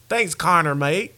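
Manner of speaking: badly faked Irish accent; horrible Irish accent. Host imitating Conor McGregor's homeboys, horrible Irish accent. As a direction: attempt an Irish accent and miss. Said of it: "horrible Irish accent just then".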